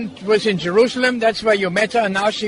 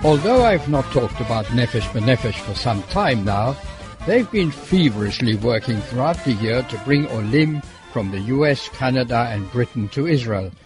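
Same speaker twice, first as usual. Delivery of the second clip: measured, lower-pitched scripted read; radio report narration; 8 semitones lower than usual. Acted. Presenter telling listeners about the airport arrivals, scripted report narration.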